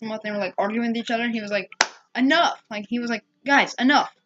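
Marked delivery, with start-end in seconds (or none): 2.2-2.6 retold shout. Fred breaks up the gang's fight. 3.5-4.1 retold shout. Fred breaks up the gang's fight.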